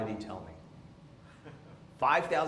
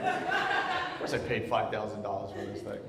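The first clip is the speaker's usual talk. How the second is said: sarcastic; 4 semitones lower than usual. Retold or imitated. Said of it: "I'm like".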